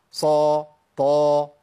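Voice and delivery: "صا، طا" long and loud, very heavy; letters of itbaq. Shown as a demonstration. Teacher showing itbaq letters, strong tafkhim. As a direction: give "صا" and "طا" a full covered thickness. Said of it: "حروف إطباق".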